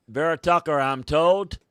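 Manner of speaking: excited reveal. Real, not acted. Draft host announcing the confirmed pick, excited. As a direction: break the scoop with a jolt of energy.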